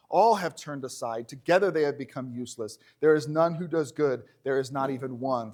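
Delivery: measured, formal Bible reading; scripture reading. Acted. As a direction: read the verse out to the congregation. Reads the psalm aloud.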